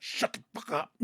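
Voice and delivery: whisper. Retold or imitated. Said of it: "And Ahsoka's like".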